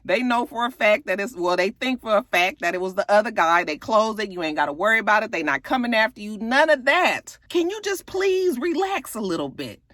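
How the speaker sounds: high, coaxing mother; coaxing mom voice. Retold or imitated. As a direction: soothe him in a lifted pleading voice. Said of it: "And she was like".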